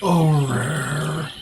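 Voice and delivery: very slow and hushed; slow, mysterious voice. Acted. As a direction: draw it out like an ancient tree.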